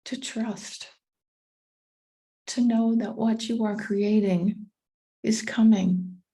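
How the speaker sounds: calm meditation guide with long pauses; unhurried, measured guiding voice; guided meditation. Acted. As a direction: ease listeners inward, leaving space after each phrase.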